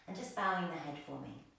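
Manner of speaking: calm, unhurried meditation voice with long pauses; guided meditation. Real, not acted. Yoga teacher guiding the class into breathing, guided meditation. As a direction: ease the class gently into stillness.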